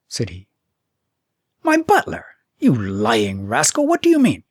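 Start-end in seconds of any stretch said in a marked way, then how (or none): 1.6-4.4 outraged royal bawl; bawling king. Acted. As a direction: bellow at the impudent boy. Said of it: "bawled the king".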